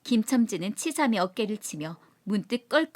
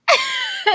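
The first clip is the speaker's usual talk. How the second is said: very high cackle that falls; shrieking drunken laugh; 7 dB louder than usual. Acted. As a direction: laugh wildly. Crowing laugh after mimicry. (높게 깔깔 웃음)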